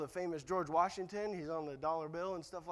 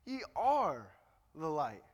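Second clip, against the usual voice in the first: "are" raised and drawn out, then dropping; stress on ARE; 4 semitones lower than usual. Shown as a demonstration. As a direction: hit "are", settle down on "the light". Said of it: "What did he say?".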